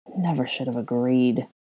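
quiet mumble, muttered under the breath. Draco turns away and leaves, mumbling to himself. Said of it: "he mumbled to himself as he left".

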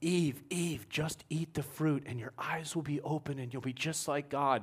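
loud, carrying stage whisper. Retelling playing Satan beside Eve, in a loud stage whisper. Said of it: "whispering loud enough for 1,000 people to hear".

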